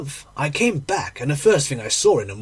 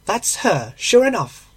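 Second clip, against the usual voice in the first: high-pitched landlady, rising louder; landlady exclaiming; 6 semitones higher, 4 dB louder than usual. A narrator's reading. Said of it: "she exclaimed".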